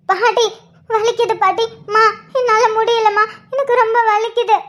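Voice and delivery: acted tearful pleading; crying in pain. Woman in labour begs grandmother and mother for help, tearful. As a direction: plead through pain, close to sobbing.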